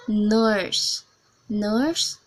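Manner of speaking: Scottish "nurse", rounded vowel with r; demonstrated Scottish "nurse"; Scottish English. Shown as a demonstration. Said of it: "for Scottish English".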